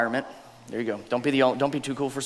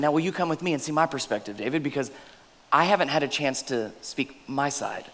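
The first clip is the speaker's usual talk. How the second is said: soft pleading Abigail; 2 semitones lower, 6 dB quieter than usual. Acted. Preacher voicing Abigail pleading softly.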